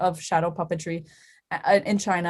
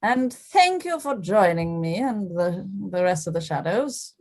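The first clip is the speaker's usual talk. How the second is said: put-on slightly British accent. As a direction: thank the audience as a slightly British puppet. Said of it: "has a slightly British accent".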